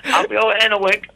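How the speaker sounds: high mock British accent, laughing. The speaker obliging the host with a hammed-up British accent. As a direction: ham up a cheery British voice. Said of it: "I hear you do a fantastic British accent".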